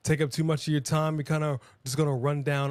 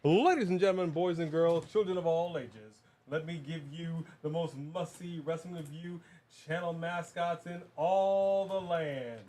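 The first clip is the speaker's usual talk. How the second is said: lightly voiced ringmaster build-up; 3 semitones higher, 5 dB quieter than usual. Ringmaster introduces the mascots.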